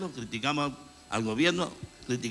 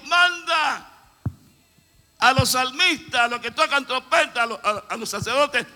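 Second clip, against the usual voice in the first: high, loud shouted order; divine command shout; 9 semitones higher, 8 dB louder than usual. Acted. God ordering the army to send the singers, shouted. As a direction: call out the command like God sending the priests. God's command, voiced in sermon.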